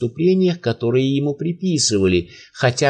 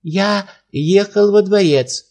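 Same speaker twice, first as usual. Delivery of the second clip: put-on trembling old man; 6 semitones higher than usual. A narrator's reading. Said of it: "ответил старик, дрожа".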